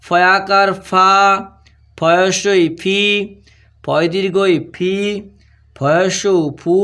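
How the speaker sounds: very slow, drawn-out syllables with pauses; spelling dictation. Shown as a demonstration. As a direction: dictate each letter combination slowly, stretching the final vowel. (ধীরে টেনে টেনে বানান বলা)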